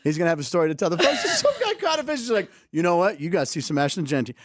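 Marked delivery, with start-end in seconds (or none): 2.7-4.4 a playful touch of Southern twang; Southern accent. Acted. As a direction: give the fisherman a Southern accent. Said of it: "I don't know why I did a Southern accent".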